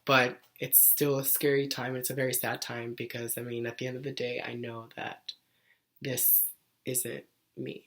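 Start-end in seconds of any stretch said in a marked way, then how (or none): 2.0-7.8 emotional. Real, not acted. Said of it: "So I apologize for getting emotional".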